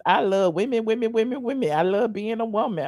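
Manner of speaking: a light take on Andrew Caldwell; lightly voiced gushing impression; mock gushing about loving women. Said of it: "in my Andrew Caldwell voice".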